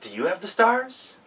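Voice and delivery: lightly voiced girl calling. A narrator's reading. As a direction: call out brightly like a young girl. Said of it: "she called out to the elves".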